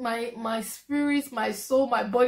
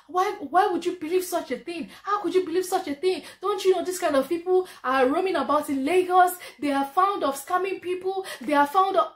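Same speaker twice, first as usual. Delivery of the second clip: higher, exasperated mother's voice; scolding mom; 5 semitones higher than usual. Retold or imitated. Mother on the phone scolding her daughter for believing a scammer, exasperated. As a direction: scold like a worried mum.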